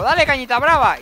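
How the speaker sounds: rallying cry. Retold or imitated. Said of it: "Yo digo".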